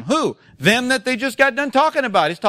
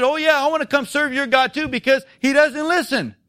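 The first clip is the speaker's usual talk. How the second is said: higher-pitched mock enthusiasm; sarcastic; 5 semitones higher than usual. Preacher voices an unimpressed world to the congregation, sarcastic. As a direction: gush sarcastically as if won over. Mocks the world's supposed reaction.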